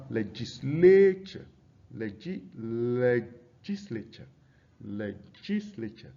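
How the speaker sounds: "legislature" slowly, broken into syllables for the stress; stress on fourth-last syllable. Shown as a demonstration. Teacher showing fourth-syllable stress, slow measured "legislature". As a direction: draw out the front of "legislature" before finishing the word. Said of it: "fourth syllable".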